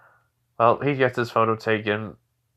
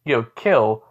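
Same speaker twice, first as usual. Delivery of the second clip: raised-voice telling-off; scolding lecture; 5 semitones higher than usual. Acted. Naruto lectures the boy for attacking the village leader, scolding. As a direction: lecture the kid, pitch jumping up. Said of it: "gets a lecture from Naruto".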